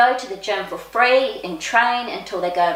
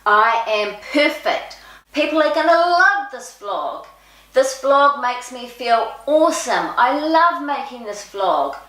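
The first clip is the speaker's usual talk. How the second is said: affirmations out loud; 5 semitones higher than usual. Shown as a demonstration. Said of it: "saying the affirmations out loud".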